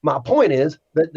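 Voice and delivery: lightly put-on Southern accent; mock Southern reading voice. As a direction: read it out with a touch of Southern twang. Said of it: "I gotta throw an accent on this one".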